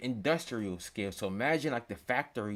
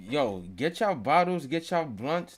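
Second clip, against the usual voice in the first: hype shout; 4 semitones higher, 6 dB louder than usual. Real, not acted. Hyping viewers up.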